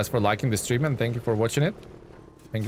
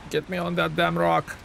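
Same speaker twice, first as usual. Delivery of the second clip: movie quote; 7 semitones higher than usual. Acted. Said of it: "quote is where he said".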